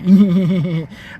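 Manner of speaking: loud burst of laughter. Real, not acted. Comic cracks up at own accent impression, loud laugh. Cackles after mocking the accent.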